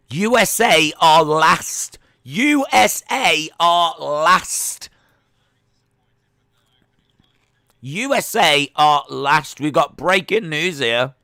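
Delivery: loud, high, drawn-out proclamation; excited announcement. Real, not acted. Streamer announcing a shock result to viewers, loud and excited. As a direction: stretch it out like shock breaking news.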